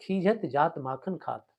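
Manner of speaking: verse recitation. Shown as a demonstration. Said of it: "अब देखिए, इसमें".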